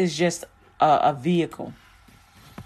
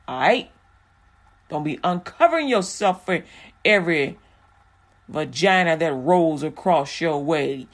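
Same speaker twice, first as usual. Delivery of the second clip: stern God. Retold or imitated. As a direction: lay down the law to the men. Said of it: "He's like".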